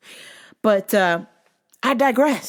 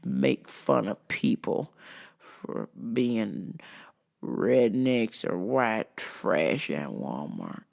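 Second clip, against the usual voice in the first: redneck rant; 4 semitones lower, slower than usual. Retold or imitated. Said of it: "dare is a rednecky type customer".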